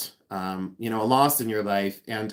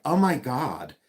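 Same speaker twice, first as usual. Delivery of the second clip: mock French-accented exclamation; fake French accent; slower than usual. Imitating the know-it-all art advisor, fake French accent. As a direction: put on a pretentious French accent. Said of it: "he thinks he sounds so, like, French".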